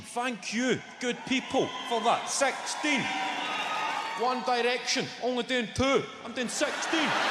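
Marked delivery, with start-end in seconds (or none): 2.3-7.0 shouting "Sixteen" high and proud; boastful shout. Real, not acted. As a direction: crow about the number to the crowd. Boasting over a boy band.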